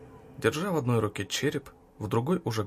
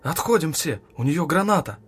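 loud, higher urgent shout; alarm shout; 5 semitones higher, 7 dB louder than usual. A narrator's reading. Officer warning people about the grenade, alarm shout. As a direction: yell the danger at everyone.

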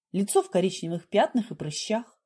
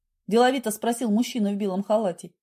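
plain reading voice

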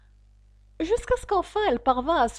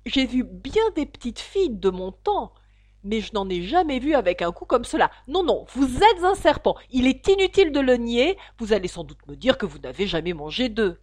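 scornful pigeon; 6 dB louder than usual. Acted. Pigeon voiced.

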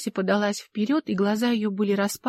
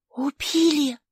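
a breathed-out, much higher gasp; exhaled exclamation; 7 semitones higher, slower than usual. A narrator's reading. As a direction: let it out on one breath. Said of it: "выдохнула Алла".

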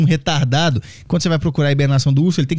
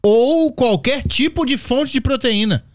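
higher, slower mock disbelief; incredulous rereading; 7 semitones higher, slower than usual. Shown as a demonstration. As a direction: quote the sentence as absurd. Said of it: "essa frase foi inacreditável". (releitura incrédula)

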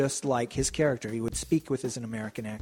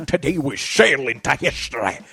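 loud mock Russian accent with a Scottish slur; hammed-up Connery-style Russian, slushy s sounds; Sean Connery's Russian accent; 8 dB louder than usual. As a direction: boom it out in a bad movie-star Russian accent. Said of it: "pretty darn close to his Russian accent".

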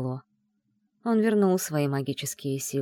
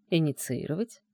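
surprised; 2 semitones lower, 4 dB quieter than usual. A narrator's reading. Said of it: "удивлённо повторил он".

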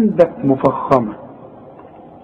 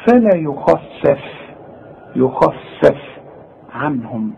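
فلا يخفف slow, with light فاء; slow recitation; slower than usual. Shown as a demonstration. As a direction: recite it slowly. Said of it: "كل فاء القرآن مرققة".

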